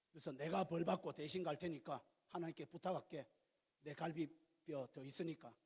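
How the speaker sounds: acted husband's quiet contrition; tender apology. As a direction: gently offer to take the blame. Models Adam offering to take punishment.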